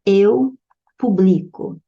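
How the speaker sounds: publico with stress on li; stressed on second-to-last. Shown as a demonstration. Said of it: "quando trata do verbo publicar".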